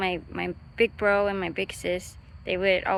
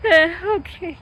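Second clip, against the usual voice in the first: put-on childlike uh okay; 9 semitones higher, 8 dB louder than usual. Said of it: "I'm like".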